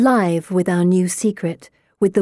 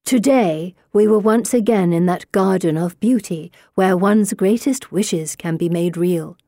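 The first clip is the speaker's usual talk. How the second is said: reading aloud. A narrator's reading. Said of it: "Here, I'll read aloud".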